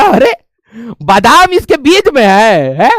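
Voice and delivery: slowed, exaggerated retold astonishment; mock surprise. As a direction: act out a astonished discovery, drawn out. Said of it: "मेरे को लगा". (हैरानी की नकल करते हुए)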